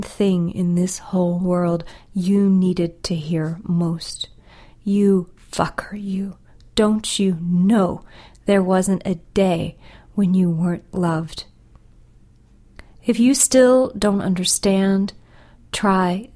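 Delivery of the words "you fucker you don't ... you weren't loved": tender. Acted. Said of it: "but said tender".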